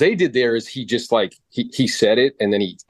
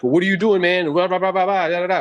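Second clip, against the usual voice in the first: higher-pitched mock nagging; imitated challenging client; 8 semitones higher than usual. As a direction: mimic a complaining client, ending in blah-blah. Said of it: "They'd be like".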